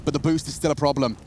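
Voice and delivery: esports caster voice, lifting as action builds; live play-by-play. Real, not acted. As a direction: call the round as it unfolds. Calls live esports round.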